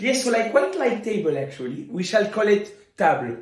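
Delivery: put-on light French accent, prim; a hint of a snooty Frenchman; mock French accent. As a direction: language French played as a person.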